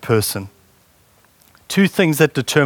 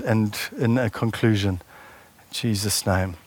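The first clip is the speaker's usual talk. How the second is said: prayer; 3 semitones lower than usual. Real, not acted. Closing prayer.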